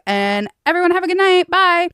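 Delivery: high, sing-song mock goodbye from the stage; mock band farewell. Retelling the band's fake goodbye, high and sing-song. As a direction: play the cheeky band teasing the crowd.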